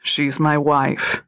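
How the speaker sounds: slow flat confession; monotone. Acted. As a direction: say it without feeling, slowly. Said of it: "he'd replied in a monotone voice".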